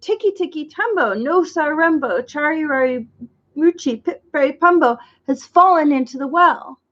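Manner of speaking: breathless, words pushed out between gasps; panting. Acted. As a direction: still winded from running. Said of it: "he panted".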